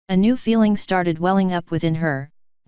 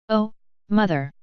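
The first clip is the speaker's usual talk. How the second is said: wailed; 3 semitones higher than usual. Acted. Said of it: "Chrysalis wailed".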